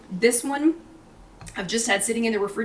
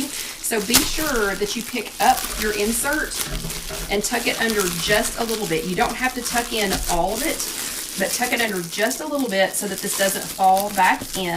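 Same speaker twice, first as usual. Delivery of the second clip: plastic liner crackling under speech; crunching noises. Real, not acted. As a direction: talk over crinkling plastic. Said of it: "Sorry about all the crunching noises".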